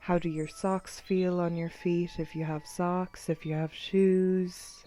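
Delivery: measured body-scan guidance, long pauses; guided meditation. Acted. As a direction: count them through tensing and releasing.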